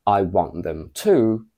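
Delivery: to stressed at the end with want. Shown as a demonstration. Teacher repeating the first version. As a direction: land on to firmly. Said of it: "comparing the first to the second sentence".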